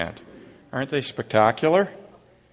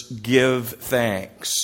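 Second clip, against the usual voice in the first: commanding. Shown as a demonstration. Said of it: "say it with heart, say it with meaning".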